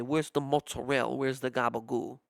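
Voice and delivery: "mozzarella" clipped to motsa-RELL, "gabagool" for capicola; Italian American pronunciation. Shown as a demonstration. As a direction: drop the last vowel of "mozzarella", say "gabagool" with g. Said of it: "the Italian American way".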